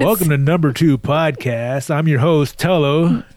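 a hint of a smooth show host welcoming listeners; talk show host. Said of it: "It's your talk host voice".

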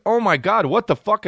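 high-pitched imitation of a shocked woman; imitated shock. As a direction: gasp it out high, imitating her alarm.

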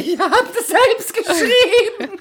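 high laughing mock claim. Real, not acted. Joking to the co-host that he wrote it, laughing high. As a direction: squeal it out through laughter.

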